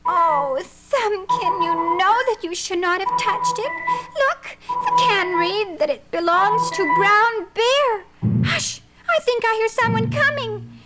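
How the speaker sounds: high, wondering little bunny voice; excited little rabbit finding honey; Thumbkin the bunny. Acted. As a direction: sniff out the honey in a small, curious voice. Thumbkin and Velvet Nose voiced.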